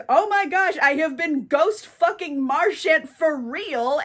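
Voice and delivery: half-hearted horrified realization; playful retold freak-out. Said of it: "he freaks the hell out".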